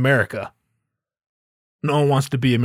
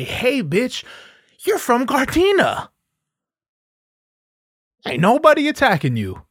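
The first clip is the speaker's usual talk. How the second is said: mock callout; 9 semitones higher than usual. Calling out a poser.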